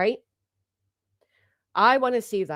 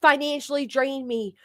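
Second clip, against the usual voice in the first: mock dramatic victim; 3 semitones higher than usual. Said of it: "with the dramatics".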